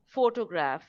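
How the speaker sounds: PHOTOGRAPH with a firm first syllable, PHO-to-graph; word stress. Shown as a demonstration. Teacher repeats the example for learners, first syllable stressed. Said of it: "that is what we mean by word stress".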